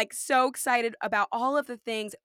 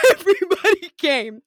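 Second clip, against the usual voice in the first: loud, high, laughing amazement; excited amazement; 7 semitones higher, 10 dB louder than usual. Real, not acted. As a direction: exclaim it big and high, thrilled at the turnout. Marvelling at the conference turnout.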